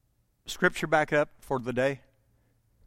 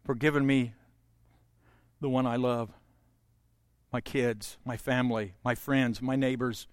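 a hushed, sincere prayer; 4 semitones lower than usual. Shown as a demonstration. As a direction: pray it gently as an example. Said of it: "you can give thanks".

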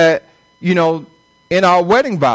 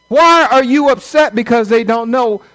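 emphatic question; 4 semitones higher than usual. Real, not acted. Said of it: "repeated for emphasis".

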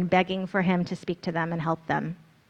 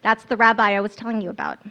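raised, higher voice calling across the shore; Andrew yelling; 3 semitones higher, 4 dB louder than usual. Acted. Andrew points out the rabbi to his brother, raised yell. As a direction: call out to a friend, pointing someone out. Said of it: "It's Andrew yelling".

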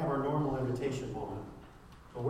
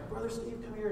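retold urgent call; 9 semitones higher than usual. Retells kids calling him over.

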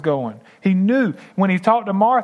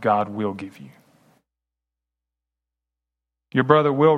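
measured, subdued Bible reading; scripture reading; 7 semitones lower than usual. A narrator's reading. Preacher reads Martha's talk with Jesus to the congregation, scripture reading. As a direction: read the passage gravely, with deliberate pauses.

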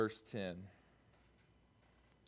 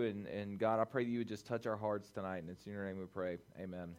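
earnest prayer, trailing lower and softer; 7 semitones lower, 5 dB quieter than usual. Real, not acted. Youth pastor opening the night in prayer, quietly earnest. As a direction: pray aloud, winding down quietly to the amen.

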